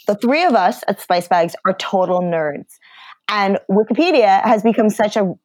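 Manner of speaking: upbeat podcast ad read. Acted. Podcast host reading a sponsor ad, upbeat ad read. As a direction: sell the sponsor's podcast to listeners.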